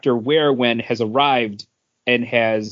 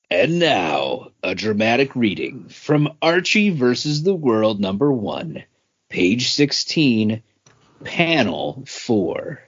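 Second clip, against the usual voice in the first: announcer intro. Acted. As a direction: present it like a stage announcer. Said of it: "would that be a dramatic reading?".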